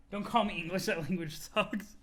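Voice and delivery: a hint of offended grandeur; pompous Jade. Jade correcting Roxy about her surname, mildly haughty. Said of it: "pompous voice".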